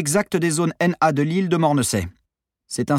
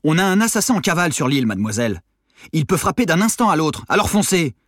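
irritated; 4 semitones higher than usual. Acted. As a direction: lose patience and push her to hurry. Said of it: "Simon s'énerva".

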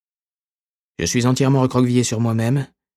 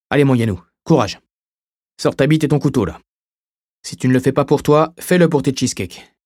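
loud, higher pep talk; rally yourself, louder and higher; self pep talk; 5 semitones higher, 4 dB louder than usual. Acted.

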